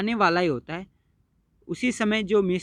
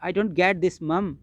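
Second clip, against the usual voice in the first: mild stumbling; much slower than usual. Acted. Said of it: "लड़खड़ाता हुआ".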